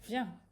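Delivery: teacher sounds out viens; reading out viens. Shown as a demonstration. Teacher reading a Hebrew word aloud to students. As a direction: say viens slowly and clearly. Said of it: "ça veut dire".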